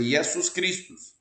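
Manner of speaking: "Jesus Christus" said slowly, as /iɛsus kɾiʃtus/; Latin pronunciation. Shown as a demonstration. Teacher models the Latin name for students. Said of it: "Exatamente assim a pronúncia".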